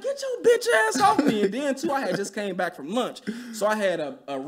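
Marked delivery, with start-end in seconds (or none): 0.0-1.4 high shouted telling off; loud retold yell. Yelling at the coworker again, high and loud. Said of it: "I said this shit loud".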